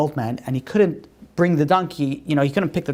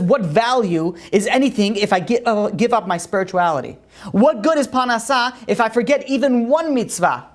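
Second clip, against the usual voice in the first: raised, earnest chess master refusing; a devout chess master rejecting the rabbi's offer; pious refusal; 5 semitones higher than usual. Acted. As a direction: plead for spirituality over money. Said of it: "He says".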